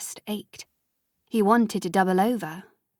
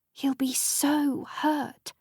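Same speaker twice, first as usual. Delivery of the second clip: slow, soft and high with worry; hushed, worried mother; 5 semitones higher, 4 dB quieter, much slower than usual. A narrator's reading. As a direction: let the fear for him slow you down. Sophie worried about Freddy.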